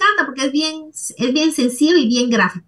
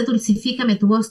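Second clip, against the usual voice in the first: loving request; 2 semitones lower than usual. Retold or imitated. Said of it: "es una petición amorosa".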